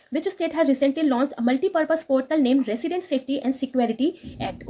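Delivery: very slow, careful reading of English text; slow news read. Acted. Teacher reading the English news line to students, slow and careful. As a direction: read each word out slowly for students.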